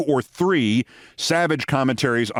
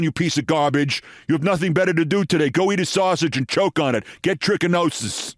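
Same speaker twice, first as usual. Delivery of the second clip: mock ranting host; 3 semitones higher than usual. Reading a host's on-air rant at a caller, mock heated. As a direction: spit the insults out fast like a shock jock.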